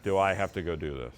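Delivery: low, soft, weary groan of reluctance; mock reluctance, sagging and low; reluctant guest. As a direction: grumble it like you dread going. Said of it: "they're like".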